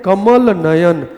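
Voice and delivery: कमल नयन very slowly and deliberately; slow, drawn out. Shown as a demonstration. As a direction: spell out कमल नयन for the class. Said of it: "क्या बोल सकते हैं?". (कमल नयन धीरे-धीरे, खींचकर)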